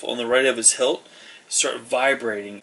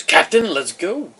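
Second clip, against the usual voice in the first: much higher and louder call; 7 semitones higher, 7 dB louder than usual. Acted. Rafim calls the captain to leave, loud call. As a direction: call him from across the room.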